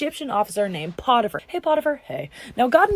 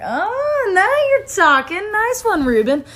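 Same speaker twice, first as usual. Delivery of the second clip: high, eager bro cheer; mock-thrilled brothers; excited approval; 9 semitones higher, slower than usual. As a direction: pitch it up like a delighted accomplice. Brothers cheering Reuben's plan.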